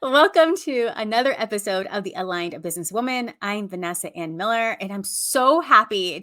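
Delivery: "Welcome to another episode" said full-voiced and bright; podcast intro read. Shown as a demonstration. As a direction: open the show like a host on air. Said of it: "Take two".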